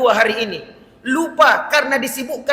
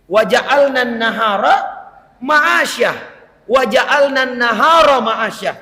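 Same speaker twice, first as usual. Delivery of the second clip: slow melodic Arabic recitation; Quranic recitation; slower than usual. Acted. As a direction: chant the verse with held vowels.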